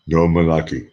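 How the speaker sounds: put-on Austrian-accented slogan; Arnold Schwarzenegger. Showing Meredith her requested impression, in an Austrian accent. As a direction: give it an Austrian movie-star accent. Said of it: "That was your request".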